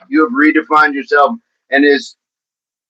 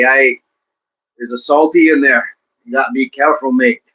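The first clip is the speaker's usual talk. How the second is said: Aussie accent slipping into Irish; wobbly Aussie accent. Shown as a demonstration. Host warning a mate about a salty, shaky Aussie accent. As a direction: try Australian, let it drift Irish. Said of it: "That went Irish".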